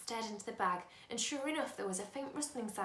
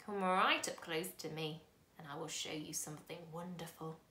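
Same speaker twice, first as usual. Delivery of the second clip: a lightly voiced old man, slow and creaky; old man beckoning a boy, slow and creaky; 3 semitones lower than usual. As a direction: creak it out slowly like an old stranger. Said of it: "his voice was very slow and creaky".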